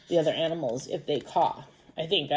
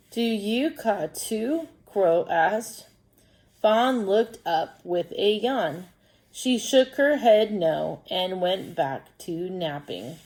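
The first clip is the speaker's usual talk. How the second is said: slow, deliberate story reading; children's story read-aloud; much slower than usual. Acted. Teacher reading a crow story to pupils, slow storytelling. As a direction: read slowly and clearly for young pupils.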